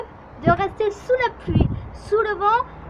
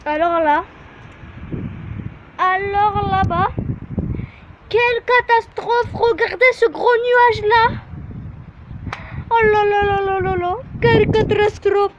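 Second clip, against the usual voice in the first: dramatic dismay; 3 semitones higher than usual. Real, not acted. Dramatic alarm at storm clouds.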